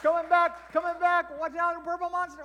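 loud high playful calls; excited calling. Acted. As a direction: call out like a game on. Mock football play.

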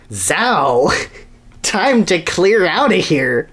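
a hint of panic as the ground shakes; alarmed exclamation. Sonny waking to shaking earth, alarmed. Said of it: "he thought".

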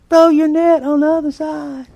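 high, loud call across water; calling from shore. Acted. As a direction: shout it out from the beach. Stranger calls from the beach.

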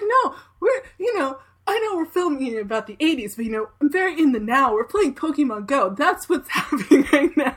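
bubbly, high and giggly, babbling on; gushing enthusiasm. Retold or imitated. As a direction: imitate her gushing excitedly about being in the now. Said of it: "and she's like, she's like".

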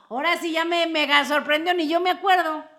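high, loud, genuinely stunned exclaim; amazed. Real, not acted. To the co-host who remembered, loud amazed cry. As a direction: blown away that she remembered. Co-host recalls what she forgot.

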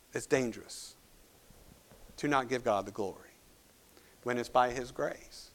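low, soft, grave caution; hushed solemn warning. Real, not acted. Preacher warning the church after Herod's fate, hushed and solemn. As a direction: drop the voice low for a sober warning.

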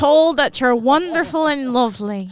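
put-on sultry hotline operator in a light Irish accent. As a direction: purr the options like a sex hotline in Irish. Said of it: "but I pick Irish accent".

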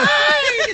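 high-pitched mock shriek; Flanders scream. Podcaster imitating a frightened witness, high comic scream. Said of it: "Gritó como".

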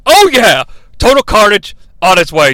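mock hype, loud at first; lightly hammed-up wrestling hype; excited commentator. Voices Shane's excited commentary.

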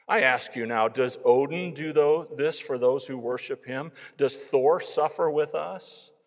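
earnest Viking convert, building in volume; Gunnar's impassioned testimony. A narrator's reading. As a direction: build to loud, challenging questions. Reads Gunnar's speech from the story.

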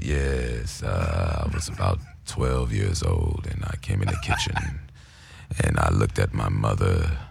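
very low, slow, rumbling impression of a singer. Retelling a singer's interview in his deep slow voice. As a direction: sink into a deep crooner rumble. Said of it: "a singer said".

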